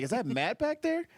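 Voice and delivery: high-pitched imitation of a call from stage; mock calling out. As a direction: imitate calling to the back of the room.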